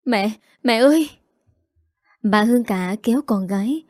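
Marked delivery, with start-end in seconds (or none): 0.0-1.1 frightened cry. A narrator's reading. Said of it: "sợ hãi ra mặt".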